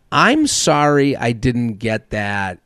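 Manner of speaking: slow, drawn-out robotic prompt; automated phone voice. Retold or imitated. Mocking the automated phone voice, slow robotic. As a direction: stretch it out like a dumb phone bot. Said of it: "the shitty voice to say".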